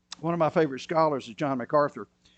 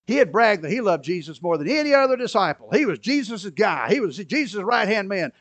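usual speaking voice

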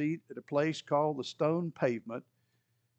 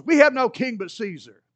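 loud, raised holler; 5 semitones higher, 8 dB louder than usual. Retold or imitated. The high priest hollers at Pilate, loud defiant shout. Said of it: "the high priest hollers".

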